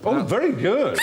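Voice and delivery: squeaky Punch and Judy squawk; puppet squawk voice. Pretend. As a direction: squawk through the swazzle. Swazzle squawk, huge pitch.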